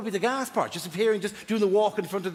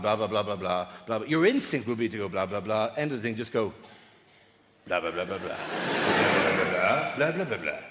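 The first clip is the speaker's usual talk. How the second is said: wrong way; 9 semitones lower than usual. Shown as a demonstration.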